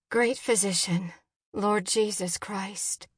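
earnest, measured prayer; a mother's hushed appeal in prayer; spoken prayer. A narrator's reading. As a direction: address God earnestly, with weight. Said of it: "Jen prayed out loud".

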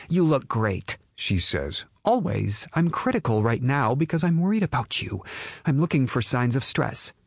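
high worried mother voice. Acted. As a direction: reassure then scold gently. Mother voice continues.

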